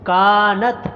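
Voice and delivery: کانت with a drawn-out کا; کانت, only کا long. Shown as a demonstration. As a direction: stretch کا in کانت. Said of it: "صرف کاف کو لمبا کرنا".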